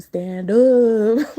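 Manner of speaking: rally them to their feet; forceful command. Real, not acted.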